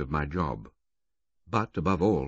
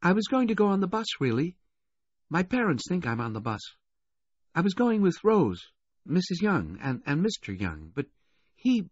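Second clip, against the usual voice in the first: put-on high-pitched girl, chattering then faltering; confiding adolescent girl; 13 semitones higher than usual. Rich girl confiding her travel plans to waiter, confiding.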